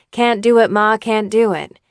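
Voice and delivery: mild, pleasant reading; pleasant and nice. Retold or imitated. Young actor reading his line too pleasantly to coach. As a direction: say it nicely, no push. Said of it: "he would say it really pleasant and nice".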